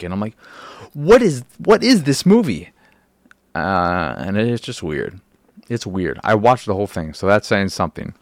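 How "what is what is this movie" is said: loud, high, incredulous outburst; exasperated disbelief, raised voice; baffled exasperation. Retold or imitated. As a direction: demand it in total bewilderment, pitch soaring. Baffled reaction to the movie.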